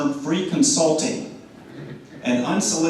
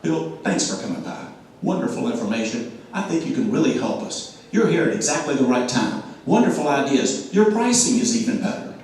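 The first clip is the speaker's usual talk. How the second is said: very nice tone. Shown as a demonstration. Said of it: "Here's what it sounds like".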